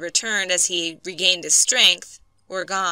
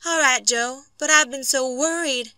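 put-on higher-pitched, worried young wife; 6 semitones higher than usual. A narrator's reading. Wife to husband back at the shack, worried. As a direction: answer him in a high, anxious wife's voice.

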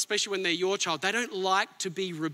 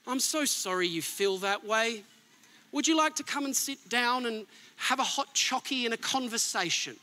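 mock coddling. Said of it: "He doesn't say".

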